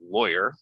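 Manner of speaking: "lawyer" said LOY-er; an oy sound in "lawyer"; rhymes with boy. Shown as a demonstration. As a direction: model LOY-er clearly. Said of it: "rhymes with boy".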